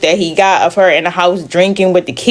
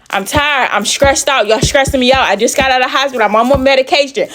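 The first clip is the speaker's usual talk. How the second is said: retold exasperated outburst, pitched up a little; fed-up rant; 4 semitones higher than usual. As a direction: vent like someone who has had enough. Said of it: "I went off".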